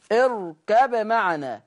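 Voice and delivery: "اركب معنا" بإظهار الباء قبل الميم; تُنطق "اركب معنا" بباء واضحة; اركب معنا بالإظهار. Shown as a demonstration. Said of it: "أظهر ورش الباء". (تلاوة بطيئة بإظهار الباء)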